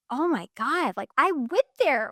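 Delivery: re-enacted baffled frustration; exasperated disbelief. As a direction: plead in mock exasperation. Acting out her baffled frustration.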